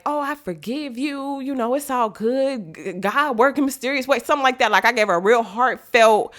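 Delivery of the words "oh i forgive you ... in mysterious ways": sweet forgiving. Retold or imitated. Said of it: "I just was like".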